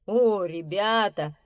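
slow, drawn-out happy greeting; delighted bear. Acted. Bear welcoming unexpected guests, delighted. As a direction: greet them slowly with pleased surprise. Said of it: "обрадовался медведь".

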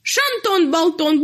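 high jeering call; mocking turkey announcement. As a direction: announce it to the whole world mockingly. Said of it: "на весь свет оповещает".

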